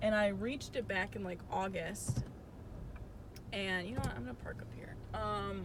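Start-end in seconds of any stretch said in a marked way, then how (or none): 3.5-4.9 under-breath note to herself while parking; whispered aside. Real, not acted. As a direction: whisper it off to the side. Driving, mutters aside while parking.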